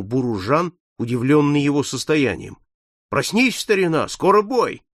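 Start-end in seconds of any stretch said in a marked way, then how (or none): 3.1-4.8 higher, brighter call to wake a friend; rousing call. Acted. Jean urging silent Paul before battle, rousing call. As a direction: shake him out of his gloom, higher.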